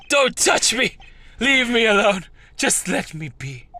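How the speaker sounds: hammed-up outburst. Character shouts at detective.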